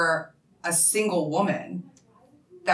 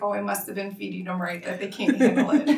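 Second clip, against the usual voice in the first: laughing; 4 semitones higher, faster than usual. Retold or imitated. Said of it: "I was so happy".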